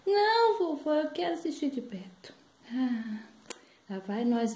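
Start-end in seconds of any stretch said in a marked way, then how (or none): 0.1-2.3 insistent granddaughter. Acted. Granddaughter insists on front seats.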